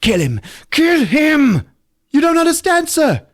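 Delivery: very high, loud frantic shouting; hammed-up order yelled in panic; mock yell. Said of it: "he's just like".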